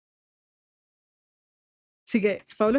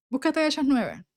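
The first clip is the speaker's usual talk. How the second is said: voz de Dios; 4 semitones higher than usual. Retold or imitated. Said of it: "Él me habla mucho así".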